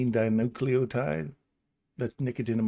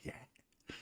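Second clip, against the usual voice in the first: alter ego; 18 dB quieter than usual. Pretend. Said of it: "My alter ego will pop out".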